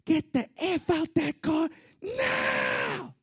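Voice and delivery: high, loud screamed order, drawn-out last word; screaming police officer. Retold or imitated. Officer screaming at a pulled-over driver, furious shout. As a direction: bellow it like an officer at a car window. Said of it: "screamed in the window".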